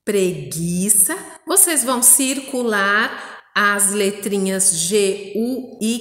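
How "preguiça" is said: preguiça joined up, slow and rising at the end; connected read-back with a questioning lift; whole-word reading. Shown as a demonstration. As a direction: blend the syllables into one careful word. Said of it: "E a próxima".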